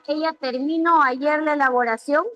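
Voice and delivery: "terminó" said as ter-MI-no, middle syllable stressed; stress moved to MI. Shown as a demonstration. Teacher asks whether it makes sense, saying ter-MI-no. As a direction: put the weight on MI instead of the last syllable of "terminó". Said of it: "Ya no va a decir terminó".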